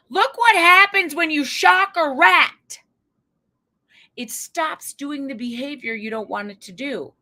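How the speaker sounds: a hint of an eager lab scientist, slow and loud at first; playing an old-time researcher showing off his findings; mock eager scientist. Old psychologist tells his colleague, lightly mocking tone. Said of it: "he said to the other fella".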